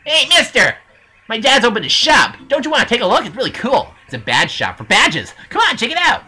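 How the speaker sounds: lightly voiced kid calling to a customer; eager shop kid. Kid inviting Mario into the badge shop, eager. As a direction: hype up dad's shop like a little salesman.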